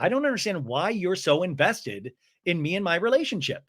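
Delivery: lightly voiced mock complaint; Brittany. Woman objecting to friend's investment, in mild mock upset. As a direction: state it as a puzzled complaint. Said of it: "Brittany's like".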